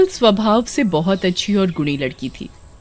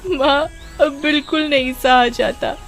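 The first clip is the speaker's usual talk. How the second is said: tearful complaint; 6 semitones higher than usual. Acted. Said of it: "रोती हुई घर पहुंचती है".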